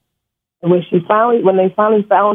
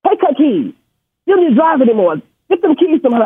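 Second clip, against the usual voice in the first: higher, mock yelled orders; retold police yelling; 5 semitones higher than usual. Police officer yelling at the elderly mother. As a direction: bark the orders the way police did. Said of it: "they're just yelling and yelling".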